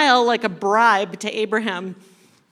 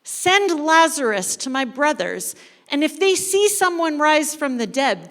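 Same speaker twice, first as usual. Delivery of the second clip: excited pleading; 4 semitones higher than usual. Acted. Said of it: "He's extremely excited".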